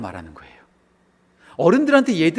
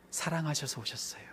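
hushed; 16 dB quieter than usual. Real, not acted. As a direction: let it drop almost to a whisper. Hushed climax after the denials. (속삭이듯 낮고 조용하게)

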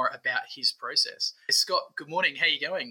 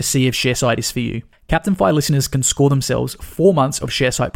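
loud, punchy sponsor read; 9 dB louder than usual. Acted. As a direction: sell it like a radio ad. Reads sponsor ad.

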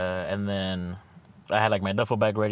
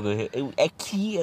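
slow, higher teasing call; 6 semitones higher, much slower than usual. Retold or imitated. Friend filming him, calling his name in a mock teasing lilt.

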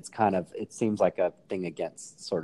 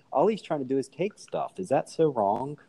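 sarcastic; 4 semitones higher than usual. Pretend. Defending a movie tomb robber to friends, sarcastic. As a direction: feign innocence, dragging out the closing question. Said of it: "I'm being sarcastic".

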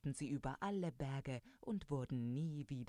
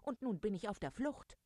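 high, swooping storybook indignation; mildly outraged, pitch jumping up; indignant rooster; 8 semitones higher than usual. Acted. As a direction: complain like an affronted rooster. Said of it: "empörte sich der Hahn".

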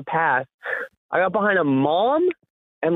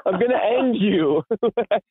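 mock threat; 6 semitones higher than usual. Narrator mock-threatening the kid blocking the path, hammed-up menace.

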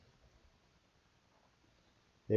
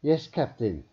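deferential; 6 semitones higher, 4 dB louder than usual. A narrator's reading. Scientist answers captain.

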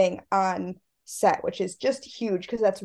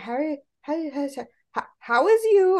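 stumbling, rising higher into "how is you"; imitating a toddler; 6 semitones higher than usual. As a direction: babble the greeting like a small child. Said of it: "she kept going".

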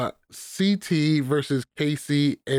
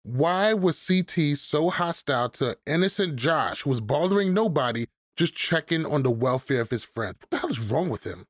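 sarcastic. Pretend. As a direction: feign outrage on behalf of an innocent friend. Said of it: "He's being sarcastic".

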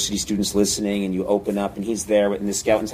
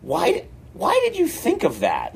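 higher, put-on questioning voice; Al Franken; 7 semitones higher than usual. Colleague questioning the pitched sketch, higher imitated voice. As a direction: ask it in a lightly mimicked, higher voice. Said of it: "Al Franken just came up to me and he said".

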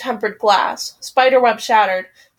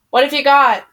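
shouting over sirens; 3 semitones higher, 4 dB louder than usual. Acted. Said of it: "I shout over the sirens".

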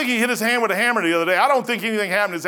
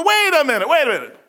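exclaim; 8 semitones higher, 6 dB louder than usual. Real, not acted. Catching himself, preaching.

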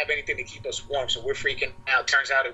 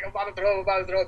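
retold urgent warning, pitched up; higher, repeated plea to clear the way; 6 semitones higher, much faster than usual. Drunk man urgently warning of vomiting.

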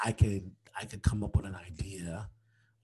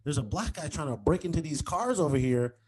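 higher, mock alarm calling across the lot; 5 semitones higher than usual. Joking to Brittany across the lot, higher mock alarmed call. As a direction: call out to a friend in fake alarm. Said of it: "I'm like".

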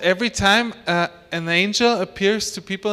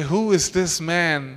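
amazed question; slower than usual. Retold or imitated. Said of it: "And they say".

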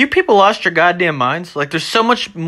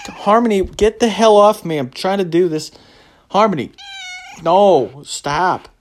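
scolding the dog; 4 semitones higher than usual. Real, not acted. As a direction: snap the dog's name to get her off you. Scolding his dog mid-recording.

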